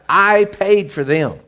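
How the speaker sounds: slow, emphatic declaration; crying out. Acted. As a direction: stretch it out like a plea in court. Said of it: "the blood's crying out".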